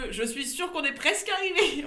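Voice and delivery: slow, drawn-out mock certainty; mock confident quote. Friend mimics host insisting they're nearly there, slow mock. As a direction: parody her false confidence, slowly. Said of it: "ou le".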